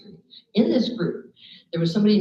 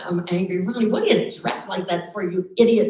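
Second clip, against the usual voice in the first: mad. Retold or imitated. Woman finally lets fly at Ronnie, mock angry. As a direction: retell her anger breaking loose. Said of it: "she got mad at him".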